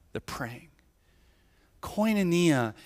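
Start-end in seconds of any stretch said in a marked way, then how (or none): 0.1-0.7 much softer, lower echo of praying; hushed lower repeat of They're praying. Shown as a demonstration. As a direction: drop the voice for the echo.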